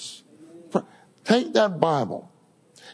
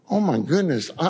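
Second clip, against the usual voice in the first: ordinary delivery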